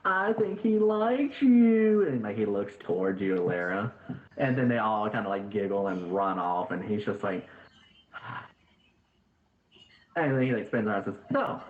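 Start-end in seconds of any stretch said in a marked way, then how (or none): 0.1-2.1 put-on high, slow, singsong little girl tease; teasing little girl. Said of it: "this one little girl orphan is like". 11.3-11.6 high squeaky denial. Acted. NPC spins around, denying.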